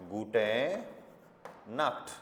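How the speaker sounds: "gute" said as GU-TE with no N at the end, then "Nacht". Shown as a demonstration. Teacher warning students not to add N. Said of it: "इसमें एन नहीं लगाना".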